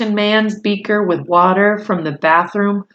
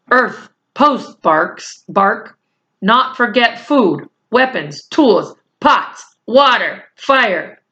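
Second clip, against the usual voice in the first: Little Bear voice; 3 semitones higher, slower than usual. Acted. Little Bear lists needs.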